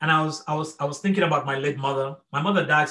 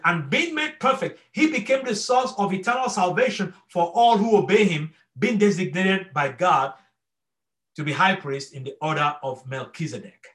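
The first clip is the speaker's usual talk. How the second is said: scripture reading; 3 semitones higher than usual. Acted. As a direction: read the verse deliberately, lifting the start. Reads scripture passage aloud.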